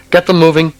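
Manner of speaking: desperate commander yelling at his men; shouting. A narrator's reading. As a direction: bark the order in panic. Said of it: "Anton shouted".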